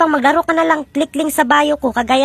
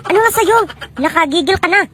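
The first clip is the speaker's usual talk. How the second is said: high-pitched irritated demand; exasperated snapping; 4 semitones higher than usual. Acted. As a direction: snap at an exasperating customer. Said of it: "Huwag mo akong sigawan". (gigil na pasinghal, mataas ang boses)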